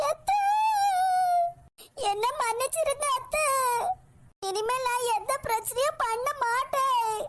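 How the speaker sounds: acted whimpering plea to be trusted; tearful pleading. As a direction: beg mother-in-law through tears. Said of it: "கண்ணீரை விட்டு கதறிட்டு".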